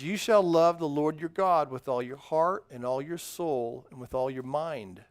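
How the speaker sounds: slow, careful Bible reading; nice and slow. Shown as a demonstration. Pastor reads the verse to children, slow and deliberate. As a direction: read each word slowly to the kids. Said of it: "I'm gonna read this nice and slow".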